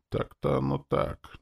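high-pitched retreat without the force; backing down. A narrator's reading. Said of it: "немного сдал назад зомби". (примирительно, высоким голосом)

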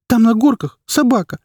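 high, loud tearful begging; boy begging his mother to see the dog; pleading child. Acted. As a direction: beg like a small boy. Boy insists.

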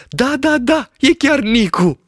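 high, lively shepherd voice, delighted; excited shepherd. A narrator's reading. Shepherd describes the village he sees, high and thrilled. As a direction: rattle off the sights in wonder.

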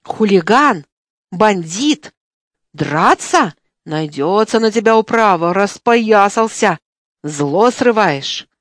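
loud accusing yells across the yard; hammed-up wail for an audience; yelling. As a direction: shout it out so the whole yard hears. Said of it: "завопил на весь двор".

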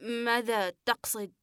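the words almost die on the lips; slow, hushed and scared; barely able to speak. Acted. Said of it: "ولسانه يكاد يموت خلف شفتيه".

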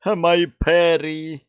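high, slow drawn-out wail; a slow, yearning wail of the name; lovesick cry. A narrator's reading. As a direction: cry out to your beloved, stretching it long. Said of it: "ринулся на клетку с воплем".

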